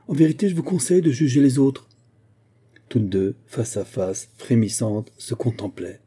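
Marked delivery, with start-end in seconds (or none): 0.1-1.9 indignant rebuke. Acted. Quarrel between two women.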